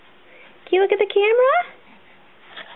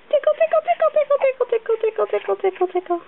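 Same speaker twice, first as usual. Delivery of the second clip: giggly tickle attack; 4 semitones higher, faster than usual. Pretend. Tickling the baby.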